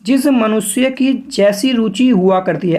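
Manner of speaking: slow, measured dictation pace; spacing the words for students to write; dictation reading. Shown as a demonstration. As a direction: read it out slowly like a dictation. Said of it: "यहाँ पर पढ़ेंगे".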